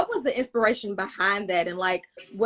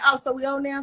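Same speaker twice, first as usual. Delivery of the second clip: petty comeback; 4 semitones higher than usual. Retold or imitated. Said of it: "and I'm like".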